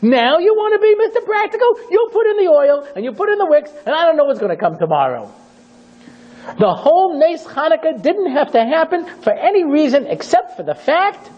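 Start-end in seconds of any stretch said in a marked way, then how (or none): 0.0-5.3 very high, impassioned challenge; indignant rebuke. Acted. Yehuda rebuking those who want to cut corners, impassioned. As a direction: rail at them with full fervour. Preacher rebukes the practical ones.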